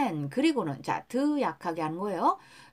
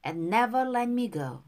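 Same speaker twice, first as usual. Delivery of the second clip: slow, careful model reading for repetition; pronunciation model. Shown as a demonstration. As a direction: say each phrase slowly for learners to copy. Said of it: "발음 다시 한번". (따라 읽도록 천천히 또박또박)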